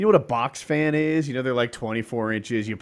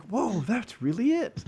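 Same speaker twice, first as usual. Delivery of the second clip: slow, higher, hushed awe; awed whoa; 9 semitones higher, 4 dB quieter, slower than usual. Retold or imitated. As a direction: gasp it out in wonder. Reacting to the dialogue.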